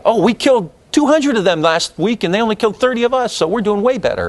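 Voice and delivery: lightly voiced smug official reading the tally; mock McNamara boast. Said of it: "This is kind of how McNamara sees it".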